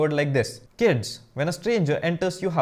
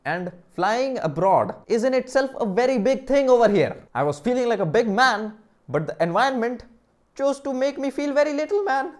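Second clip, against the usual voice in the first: mock whine; 8 semitones higher, 3 dB louder than usual. Mock self-pity about feeling small.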